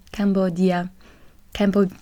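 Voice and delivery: French-accented Cambodia; English word slipping into a French accent. Real, not acted. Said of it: "English with a French accent".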